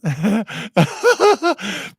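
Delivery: real burst of high laughter; high, helpless giggling; laughing. Real, not acted. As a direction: crack up laughing at a joke. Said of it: "I'm laughing at Phil J Weston".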